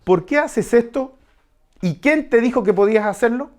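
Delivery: mock the owner who finds her furniture moved; indignant homeowner's challenge. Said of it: "y pregunta". (dueña de casa que reclama, indignada a medias)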